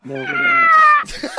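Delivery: high squealing laughter; can't hold back the laugh; laughing hard. Real, not acted. Laughing fit at a noise.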